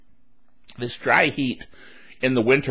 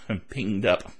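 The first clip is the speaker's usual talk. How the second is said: "binged up" repeated through a laugh, softer; 6 semitones lower, 7 dB quieter than usual. Real, not acted.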